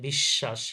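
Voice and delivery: বিশ্বাস said bish-shash; doubled শ. Shown as a demonstration. Teacher shows students the doubling, বিশ্বাস as bish-shash. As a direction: lengthen the middle sh in বিশ্বাস. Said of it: "double হয়ে গেছে".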